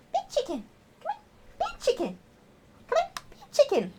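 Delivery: very high, short pet-call bursts; high-pitched coaxing. Real, not acted. Owner urging her bird to copy her, very high-pitched. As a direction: squeak it out to rouse the bird. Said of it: "the higher pitched my voice goes".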